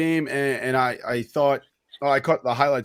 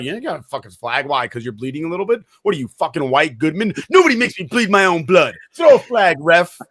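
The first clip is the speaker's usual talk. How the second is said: mock rant building from level to high, loud yelling; a player hammily demanding a flag from the referee; ranting quarterback; 4 semitones higher, 5 dB louder than usual. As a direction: work yourself up until you're yelling at the ref. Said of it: "He was like".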